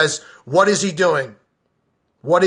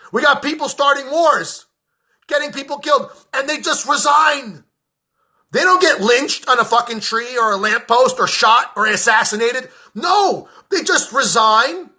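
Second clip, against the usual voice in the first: furious shout; 4 semitones higher than usual. Real, not acted. Ranting podcaster yells at listeners about war criminals, furious shout. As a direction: yell it like you can't take it anymore. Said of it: "I'd rather yell and look like".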